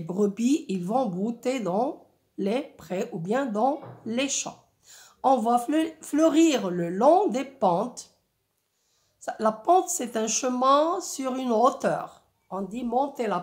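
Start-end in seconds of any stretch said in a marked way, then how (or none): 5.2-8.1 poetic reading. Shown as a demonstration. Teacher reads the verse about slopes to pupils, poetic reading. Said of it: "un rythme et un ton, euh, poétique".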